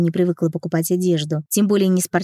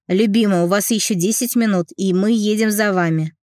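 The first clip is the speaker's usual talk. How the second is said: ordinary delivery, nothing marked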